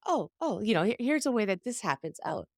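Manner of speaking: playful dawning surprise; mock delighted discovery. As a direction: act as if spotting one example after another. Acting out spotting examples everywhere.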